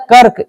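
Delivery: "कर्क" weighted on KA, r short. Shown as a demonstration. Teacher weighing the sounds for class, "कर्क" with light r. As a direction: lean on KA in "कर्क", pass quickly over r. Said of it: "रो का कम उच्चारण".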